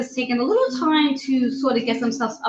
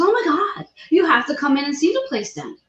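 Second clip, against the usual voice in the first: higher-pitched imitation of an excited owner; retold excited exclamation; 5 semitones higher than usual. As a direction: gush it as the owner urging a visit. Retelling owner's delighted reaction.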